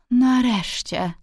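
high, drawn-out cry of relief; relieved exclamation. A narrator's reading. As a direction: call it out slowly, relief pouring out. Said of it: "zawołała".

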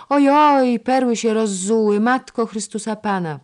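high, loud cry of dismay; alarmed cry. A narrator's reading. Clumsy girl who has spilled the pearls, alarmed. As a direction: wail out in sudden panic.

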